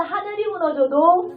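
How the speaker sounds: loud, slow declaration; rallying proclamation. Real, not acted. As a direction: lead the congregation to repeat it. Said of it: "다 같이 선포합니다".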